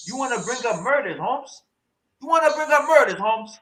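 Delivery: a put-on street preacher voice, ranting "eh?"; mock activist rant. Streamer parodying a debate speaker with a put-on ranting voice. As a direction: play a heated hood orator asking questions.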